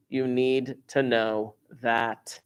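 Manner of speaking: You need to know that, slowly and deliberately; slow emphasis. Shown as a demonstration. Teacher drills the formula into students, slowly. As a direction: stretch each word out.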